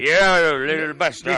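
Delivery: loud, slow, drawn-out Minnesota drawl; hammed-up impression of a thick Minnesota accent; mock Brad Pitt staying in character; Brad Pitt's Minnesota accent. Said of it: "Comiendo solo porque decía".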